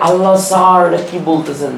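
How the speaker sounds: a hint of a stunned student, falling off at the end; baffled student. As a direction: lightly mimic a confused pupil's exclamation. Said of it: "তোরা চিন্তা করবি যে".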